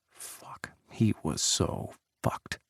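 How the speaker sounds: unvoiced whisper, slow and low; whispered curse. A narrator's reading. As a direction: breathe it out in dread. Inner panic, whispered thought.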